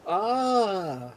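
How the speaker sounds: high, loud, slow mock cries for help; disguised player begging sailors for rescue; fake drowning damsel. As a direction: ham up a swimmer in trouble. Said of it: "I go back to going".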